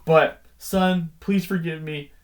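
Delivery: usual speaking voice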